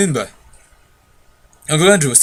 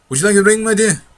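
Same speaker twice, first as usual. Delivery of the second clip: higher, sweetly offering; tempting old uncle; 6 semitones higher, 3 dB louder than usual. Acted. Uncle offers Polly a ring, high and coaxing. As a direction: dangle the ring before her.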